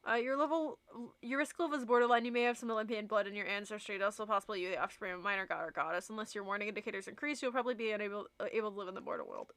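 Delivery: rattling off quiz results fast; quick read aloud. Acted. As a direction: read it off the screen briskly.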